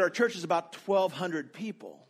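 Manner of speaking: a hint of an imitated Ethiopian accent. Student answering about his church, in a lightly imitated Ethiopian accent. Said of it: "in his perfect Ethiopian accent".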